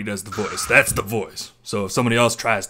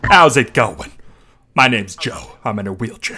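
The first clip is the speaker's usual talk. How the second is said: loud cartoon impression, falling off; Joe Swanson; 4 dB louder than usual. Streamer showing off his better cartoon voice, punchy loud impression. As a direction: burst in loud, then settle. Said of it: "I think my Joe Swanson voice is better".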